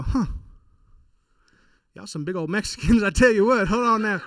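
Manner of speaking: a confused Southern local, hammed up; Southern redneck accent. Small-town neighbor puzzling over the family, Southern accent. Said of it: "They would look at my family and go".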